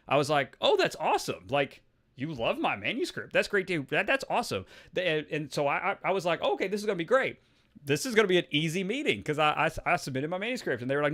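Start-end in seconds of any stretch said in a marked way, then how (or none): 0.6-4.7 retold delight. Acts own delighted reaction to praise. 6.4-9.2 higher, lightly acted eagerness; retold optimism. Acts own naive optimism before meeting.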